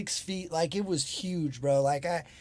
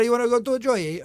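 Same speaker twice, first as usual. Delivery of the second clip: higher, louder stab at Aussie; mock Aussie accent; 6 semitones higher, 4 dB louder than usual. Imitating daughter talking slang, mock Aussie accent. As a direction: throw out a rough Australian accent. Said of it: "she's talking in Aussie".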